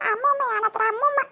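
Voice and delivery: hammed-up tearful grumble about grandma; crying. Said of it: "എന്താ കരഞ്ഞോണ്ട് വരുന്നേ".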